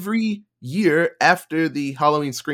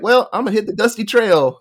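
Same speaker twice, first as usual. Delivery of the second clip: cowboy voice; 7 semitones higher, 6 dB louder than usual. Retold or imitated. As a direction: hit the dusty trail like a cowboy. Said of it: "And he's like".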